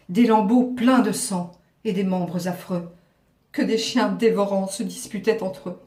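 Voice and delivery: horrified classical verse recitation; grand tragic stage delivery. Acted. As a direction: tell the nightmare with tragic dread. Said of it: "une petite tirade d'Athalie, un peu tragique".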